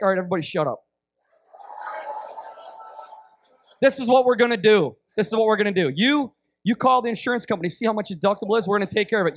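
lightly acted bossy organizer; bossy ruler. Ruler assigning everyone jobs at the bedside, mildly bossy. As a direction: hand out orders with mild authority. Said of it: "they're kinda a little bit bossy".

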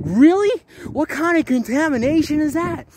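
high, loud mock disbelief; retold sarcastic reply. Retelling his scoffing reply to the woman. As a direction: act the scoffing comeback. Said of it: "And I'm just like".

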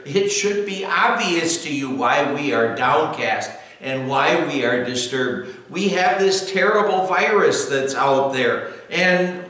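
insistent retort. Acted. Acted retort to the psalmist.

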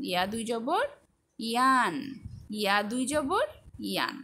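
rising জবর, then falling ইয়ান; spelling recitation. Shown as a demonstration. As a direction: recite ইয়া দুই জবর, pause, land on ইয়ান. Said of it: "সবগুলোর উচ্চারণ একটু দেখে নিলাম".

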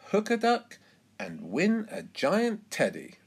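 high, lively barker voice; high-pitched, swooping sales call; fairground stallholder's pitch. A narrator's reading. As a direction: sell the game to passers-by, pitched well up. Stallholder calling to fairground crowd.

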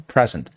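noun present, PREsent with the first syllable stressed; 第一音节重读. Shown as a demonstration. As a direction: hit the PRE in present. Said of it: "重读在第一音节啊". (present读作PRE-zent，前重后轻)

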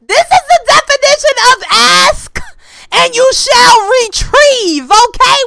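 loud emphatic exclaiming; excited proclaiming. Real, not acted. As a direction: proclaim it high, hitting every word. Crowing over getting twins.

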